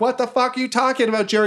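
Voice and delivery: high, fast baffled goblin; confused goblins. Acted. Goblins baffled by Jerry, a high quick voice. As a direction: sputter in confusion. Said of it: "And they're like".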